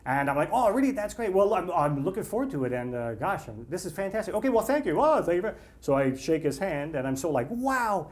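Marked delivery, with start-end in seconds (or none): 0.5-5.6 flustered, high-pitched delight; eager star-struck acceptance, acted out; gushing thanks. Star-struck reply to film offer. 7.5-8.1 high, swooping wow; retold star-struck awe; acted-out amazement. Still dazed after the handshake.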